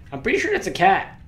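high, loud disbelief; incredulous. Real, not acted. Baffled at picture.

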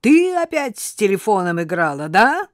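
father snaps at daughter over the phone, angry; barked at daughter. Acted. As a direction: bark it at the child. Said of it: "Он гаркнул на дочь".

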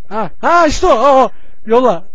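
thrilled to finally find him; excited. Real, not acted. Spots the wanted hero excitedly.

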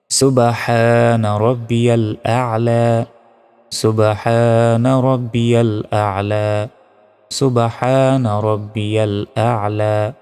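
slow "সুবহানা", long throaty ha; correct tasbih recitation. Shown as a demonstration. Teacher showing the sujud tasbih, slow measured recitation. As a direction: stretch "আ'লা", catching the ain in the throat. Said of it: "এই তাসবিহ তিনবার".

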